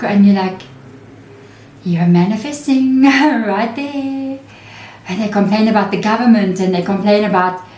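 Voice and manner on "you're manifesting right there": amused, higher laughing comeback; laughing retort. Retold or imitated. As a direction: tease them with a laugh.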